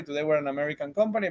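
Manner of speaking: ordinary talk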